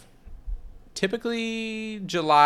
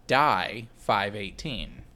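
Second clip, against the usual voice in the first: slow ominous; 4 semitones lower, much slower than usual. Retold or imitated. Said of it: "appeared to say".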